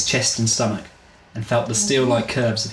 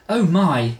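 put-on light English accent, gasped; a hint of a posh English lady; 6 semitones higher than usual. Woman steadying herself on the bank steps, mild English accent. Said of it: "she exclaimed in an English accent".

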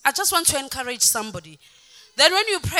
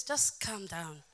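slow, low, soft reassurance; imitating a husband calmly settling his wife down; 7 semitones lower, 12 dB quieter, slower than usual. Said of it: "If you see me calm like this".

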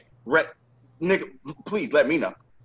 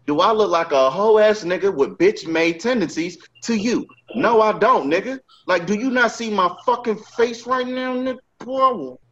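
angry rant; 6 semitones higher than usual. Retold or imitated. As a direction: escalate the threat, getting hotter. Rant building to anger.

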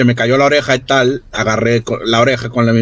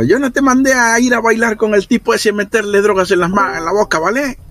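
higher, reproachful telling-off; a touch of scolding; 8 semitones higher than usual. Acted. Character scolds Bogart for bringing the drugs, mildly reproachful. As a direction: scold him, lightly in character.

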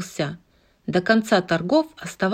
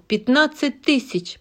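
auctioneer; 7 semitones higher than usual. Acted. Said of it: "повторил аукционист".

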